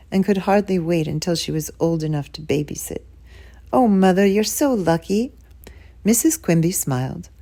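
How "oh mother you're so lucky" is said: eager, delighted. Acted. Enthusiastic sister.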